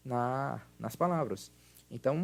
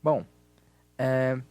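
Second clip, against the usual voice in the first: loud, projected teacher voice; class lesson voice; 6 dB louder than usual. Acted. Teacher runs a recorded grammar exercise, loud and projected.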